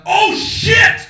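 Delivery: high, loud shocked yelp; startled cry. Retold or imitated. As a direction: jump at what he heard. Friend startled at his words.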